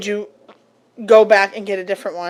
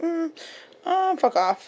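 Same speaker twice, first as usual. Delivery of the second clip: annoyed sarcastic; 8 semitones higher, 5 dB quieter, slower than usual. Retold or imitated. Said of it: "you're just like".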